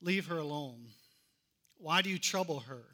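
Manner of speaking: gently but firmly shut them down; Jesus calmly defending her; calm firm rebuke. Retold or imitated. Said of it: "But Jesus said".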